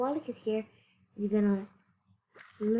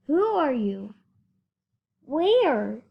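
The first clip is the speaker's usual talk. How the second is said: louder searching call; Horton calling; 3 semitones higher, 6 dB louder, much slower than usual. Acted. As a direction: call out into the air. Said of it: "said Horton".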